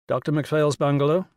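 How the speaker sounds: a lightly mocking prim secretary answering the phone; parody of secretarial efficiency. Will answering the phone as a mock secretary, mildly parodied. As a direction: play it as a mock-efficient receptionist, only a little put on. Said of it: "in a parody of secretarial efficiency".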